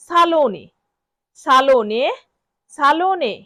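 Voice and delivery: সালোনে as sa-LO-neh, long middle syllable; model pronunciation. Shown as a demonstration. Teacher drills learners on সালোনে, careful model pronunciation. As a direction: sound out "সালোনে" sa-LO-neh, a pause between repeats. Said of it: "বারবার শব্দটি উচ্চারণ করব".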